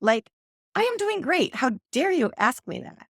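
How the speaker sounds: mock-offended, how dare she; indignant outrage. To her friend, imitating her own offended, defensive self. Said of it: "I was like".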